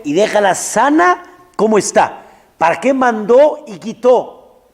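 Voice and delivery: loud rising protest, pitch climbing high; indignant complaint. Acted. Preacher voicing a protester shouting his why at God. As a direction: rail at the heavens, demanding why.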